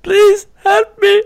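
slow, very high falsetto pleading; mock a helpless player begging, drawn out; imitated plea for help. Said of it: "he was like".

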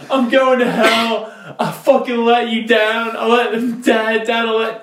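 high, laughing overwrought wail; mock sobbing apology. Son apologizing to his mom, high mock sobbing wail. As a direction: sob it out, hamming the guilt.

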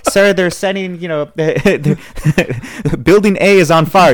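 hammed-up panic, cracking up; mock alarmed secretary. Secretary voiced, reporting fire.

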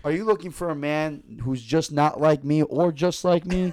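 improvised dating-service pitch; fake ad read. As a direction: pitch it to the listeners like a mock commercial. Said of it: "do a fake ad on the spot".

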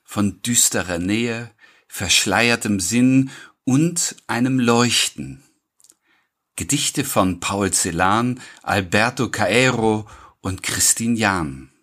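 measured episode announcement with pauses; podcast title read. Acted. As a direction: read out the title line by line, deliberately.

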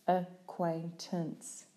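"Acquaintance" slowly, syllable by syllable; split into syllables. Shown as a demonstration.

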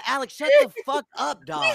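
laughing. Real, not acted. Laughing dismissal mid-argument.

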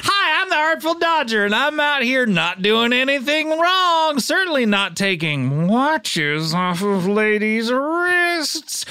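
Artful Dodger voice. Acted. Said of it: "I'm like that kid in Oliver".

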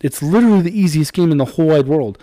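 hyped-up, high-pitched kid impression; imitated excited kid. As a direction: imitate a kid bursting to show off a game. Dad reads out son's chatter.

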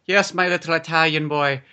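lightly voiced old-world father; a touch of theatrical weariness; weary papa. Landlord tells his rescued boy about a rough day, mock weary. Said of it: "It's like".

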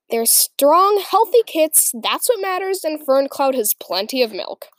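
a proud motherly elder speaking; proud old she-cat. Acted. Goldenflower speaks to Brambleclaw.

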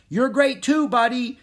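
high, loud cheering shout. A narrator's reading. Annie cheers the horse on, shouting. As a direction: shout praise across the ring. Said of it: "Annie shouted".

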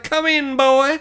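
high-pitched mock female voice; imitated hot chick. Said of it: "the hot chick went to go for a shower".

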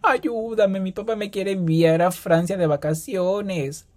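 put-on high, pleading rich-girl voice, slowed; lightly voiced dramatic soap girl; Mía Colucci impression. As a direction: plead like a spoiled teen heroine. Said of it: "Me siento como esta, la Mía Colucci".

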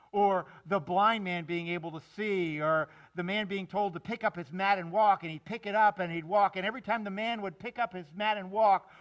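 rousing preacher crescendo; building excitement. Real, not acted. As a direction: pile up the miracles with rising force. Preacher builds to miracle climax.

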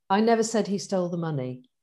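I stressed at the start. Shown as a demonstration. Teaching a coaching sentence, stress on I. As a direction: lean on the first word I. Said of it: "them teaching us this on the coaching course".

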